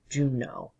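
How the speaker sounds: Juneau as JUNE-oh, said as a repeat; teaching pronunciation. Shown as a demonstration. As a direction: say "Juneau" with an O ending. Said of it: "is pronounced like O".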